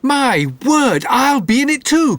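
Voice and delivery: high, keen exclamation; eager cry. A narrator's reading. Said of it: "cried Jack the Dullard".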